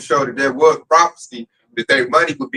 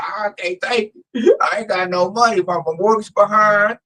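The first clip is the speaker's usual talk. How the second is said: mock crying complaint, higher; imitating sobbing; 4 semitones higher than usual. Mimicking a coworker crying about money, mock sob. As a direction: whine it like a broke man sobbing. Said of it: "I heard sob stories every day".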